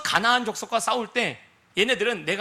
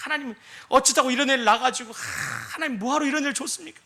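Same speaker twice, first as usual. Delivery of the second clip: hurried, exasperated parent sighing at God; mock complaint; 3 semitones higher, faster than usual. Mother blaming God for her child, exasperated. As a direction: rush out a sighing grumble.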